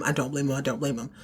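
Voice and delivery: fading to quiet. Retold or imitated. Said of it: "Karen is at her wit's end".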